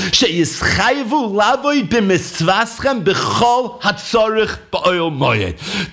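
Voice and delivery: slow intoned reading of the source; drawn-out learning-tune recitation; slow text reading. Shown as a demonstration. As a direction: read the words out slowly like study chant. Reading the Sforno aloud.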